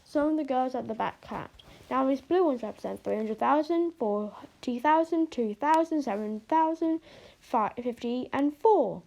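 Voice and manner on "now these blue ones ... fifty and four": slow voice. Acted. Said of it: "Harry said in a slow type of voice".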